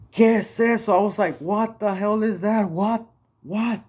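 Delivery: high, loud startled cry; panicked. Retold or imitated. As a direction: shriek it out in sudden fright. Woken by a demon voice.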